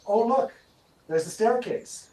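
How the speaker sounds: bright high exclaimed discovery; mock surprise. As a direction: act out spotting the stairs. Acting out a visitor's discovery.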